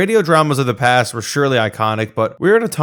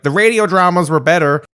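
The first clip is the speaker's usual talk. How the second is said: higher and louder, a playful pretend shout; mock shout; 7 semitones higher, 5 dB louder than usual. Narrator daring viewer to heckle during Star Wars, playful mock shout. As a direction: blurt it out like a know-it-all heckler in the cinema. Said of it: "I dare you to shout".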